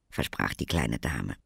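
plain reading voice

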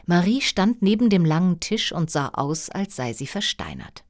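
usual speaking voice

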